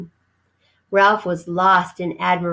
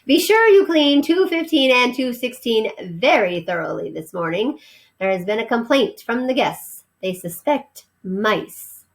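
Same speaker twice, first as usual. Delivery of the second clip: stern housekeeper; 4 semitones higher than usual. Acted. Housekeeper gives orders.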